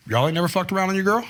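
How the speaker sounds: a quick, offhand Jesus, lightly voiced. Jesus calling out the Pharisees, a lightly voiced casual Jesus. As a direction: toss it off fast like a casual Jesus. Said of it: "that's what he says in the Jesus way".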